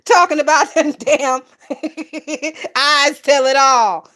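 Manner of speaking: laughing. Real, not acted. Laughing while quoting chat.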